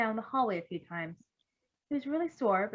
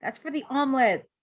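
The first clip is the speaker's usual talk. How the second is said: a mild scolding, louder; 4 semitones higher, 7 dB louder than usual. Acted. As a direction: tell him off for the bacon, lightly. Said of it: "Bluebird scolded".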